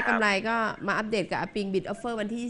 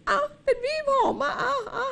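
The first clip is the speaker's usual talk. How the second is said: laughing. Real, not acted. Teasing back the cajoling line.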